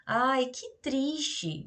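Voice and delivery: slow, drawn-out sorrowful sigh of words; mild demo of sadness; sad exclamation. Shown as a demonstration. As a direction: say it as if moved by bad news. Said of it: "Então, tipo".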